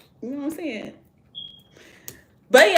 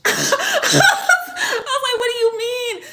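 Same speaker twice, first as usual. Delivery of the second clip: high, loud laugh breaking into the words; laughing disbelief; 6 dB louder, much slower than usual. Retold or imitated. Storyteller replaying donut price shock to viewers, laughing incredulously. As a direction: retell your shock while cracking up.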